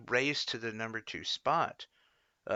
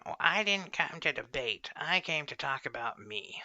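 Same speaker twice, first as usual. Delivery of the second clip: shrill mocking Klobuchar; 4 semitones higher than usual. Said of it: "screeches her nails on the board voice".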